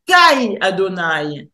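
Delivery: "Kai Adonai" with a hard K in place of the guttural; K reading. Shown as a demonstration. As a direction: read "Kai Adonai" with a clear K sound. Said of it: "si je le lis avec le K". (« Kai Adonai » prononcé avec un K dur)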